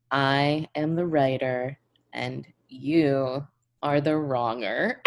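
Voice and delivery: slow, smug declaration; mock righteous. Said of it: "I'll be like".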